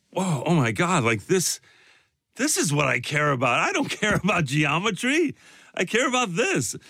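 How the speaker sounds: put-on reliving a kid's excited discovery, pitch climbing; wide-eyed kid discovering what matters; awed revelation. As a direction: build from whoa to an eager high declaration. Acting out childhood art revelation.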